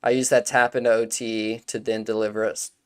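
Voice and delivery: hiccups between words; speaking with the hiccups; hiccuping. Real, not acted. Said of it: "excuse me".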